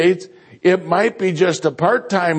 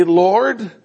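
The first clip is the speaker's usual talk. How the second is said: eager asking; slower than usual. Retold or imitated. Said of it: "To say".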